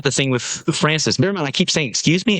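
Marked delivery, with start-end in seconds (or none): 1.9-2.4 high feigned confusion, rising at the end; innocent, higher-pitched query; acting dumb. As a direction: play clueless, as if you don't know. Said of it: "acting dumb as to who she is".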